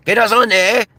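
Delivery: high, loud mock Spanish redneck; Spanish-speaking redneck. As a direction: holler it like a Spanish redneck caricature. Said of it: "every single culture has rednecks".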